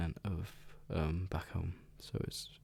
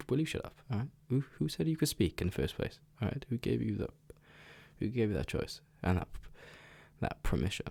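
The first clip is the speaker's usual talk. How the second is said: mock scolding brother; 4 semitones higher than usual. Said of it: "It's like".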